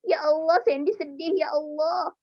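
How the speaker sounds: mock-sorrowful cry to God; hammed-up tearful prayer; pretend sad plea. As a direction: plead as a sad child, playfully. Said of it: "anak-anak sedihnya apa lagi".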